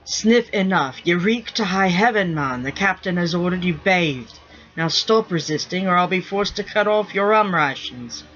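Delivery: a lightly voiced stern first mate; firm, half-amused ship's-mate order; gruff pirate mate scolding. First mate ordering the stinking rigger bathed, gruffly. Grimm scolding Sniff at bath.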